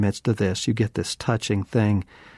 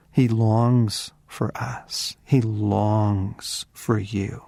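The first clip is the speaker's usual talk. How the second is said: tender; much slower than usual. Real, not acted. Tender close of sermon point.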